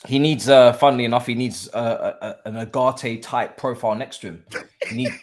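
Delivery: pained delivery tipping into laughter. Real, not acted. Pundit on what Enzo needs beside him, pained. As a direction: say it as if it hurts, comically. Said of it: "With so much pain?".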